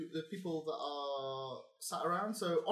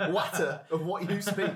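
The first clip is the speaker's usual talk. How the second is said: laughing through northern voice; giggling Yorkshire barkeep; northern accent; 3 semitones higher, 5 dB louder than usual. Acted. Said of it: "I can do northern".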